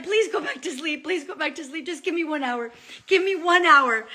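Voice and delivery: high-pitched repeated begging; pleading. Retold or imitated. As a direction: beg insistently, as if bargaining. Retold pleading with husband.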